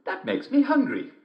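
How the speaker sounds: put-on very high, girlish and bright; little girl voice. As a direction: play the small girl at the door, loud and high. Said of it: "said Little Red Riding Hood".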